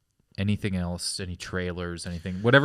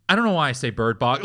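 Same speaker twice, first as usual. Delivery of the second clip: tour guide; 4 semitones higher, 4 dB louder than usual. Retold or imitated. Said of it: "And he goes".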